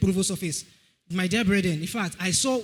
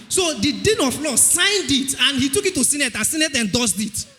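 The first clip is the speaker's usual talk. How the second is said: testimony climax; 3 semitones higher than usual. Real, not acted. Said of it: "never happened before".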